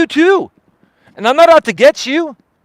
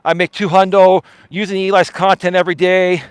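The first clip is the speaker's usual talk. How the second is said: lower, fast, smug imitation of the streamer; mimicking a lazy streamer's lower, quicker confession; mocking the streamer; 4 semitones lower than usual. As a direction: sneer through his imagined inner thoughts, lower and quick. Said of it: "you're like".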